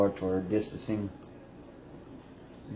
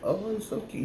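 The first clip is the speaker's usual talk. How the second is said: mock cooing; 12 semitones higher than usual. Explaining how not to hold the cat, cooing high. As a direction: coo over him like a cute baby. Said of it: "you just can't hold him like".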